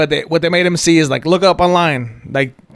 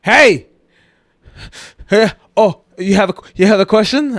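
teasing call; 3 semitones higher than usual. Retold or imitated. Mocking friend on the phone.

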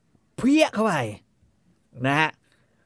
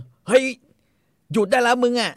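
retold shout; 10 semitones higher, 4 dB louder than usual. Young man shouting at the drunk on the train, loud high yell. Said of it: "มันก็ตะโกนเลย".

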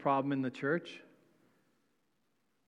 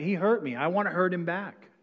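"I want retribution" pushed louder and higher; louder demand; 4 semitones higher, 5 dB louder than usual. Retold or imitated. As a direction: demand revenge with heat. Voicing a vengeful believer.

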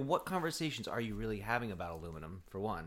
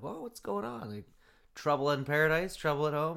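mimicking his own concerned reply; 4 semitones higher, 3 dB louder than usual. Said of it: "I'm like".

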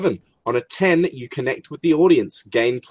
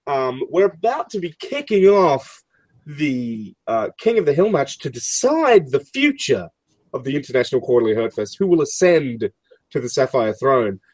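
reporter voice; 3 semitones higher than usual. Acted. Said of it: "She's like".

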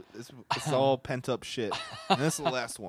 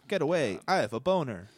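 mock shout; 4 semitones higher, 5 dB louder than usual.

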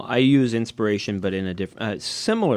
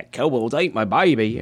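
a horrible mock Australian accent, ate as ait and baby as paibi; bad Australian accent; 2 semitones higher, 3 dB louder than usual. Urged by a cohost, says the title in a bad Australian accent. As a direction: ham up a clumsy Australian accent. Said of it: "that was a horrible Australian accent".

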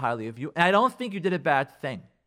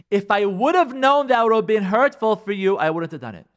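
louder, higher, emphatic protest; defensive excuse; 3 semitones higher, 6 dB louder than usual. Acted. Spouse using a fire escape when accused, loudly defensive. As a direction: push the excuse out forcefully.

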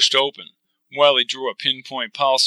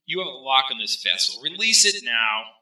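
commanding voice; 4 dB quieter than usual. Acted. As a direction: order it released, lightly voiced. Wiley orders release.

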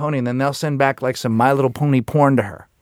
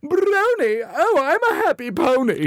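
put-on high, slow cooing baby talk; much slower than usual. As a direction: coo like talking to a puppy. Mocking baby talk to pony.

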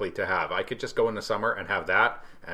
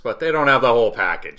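"whole package" given deliberate extra weight; emphasis on package; 6 dB louder than usual. Real, not acted. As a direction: lean on the word "package". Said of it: "I emphasize the word package".

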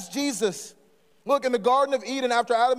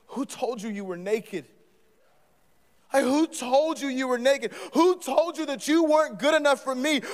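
lightly voiced God, higher and pressing; God questioning; 5 semitones higher than usual. Preacher as God questioning ashamed Adam, tender and urgent. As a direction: press him gently to confess.

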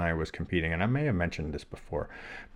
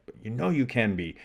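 higher, hopeful inner reply; retold self-encouragement; 4 semitones higher, faster than usual. Athlete answering his own doubt in the mirror, encouraging. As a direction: lift it into gentle reassurance. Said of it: "this little dialogue just going back and forth".

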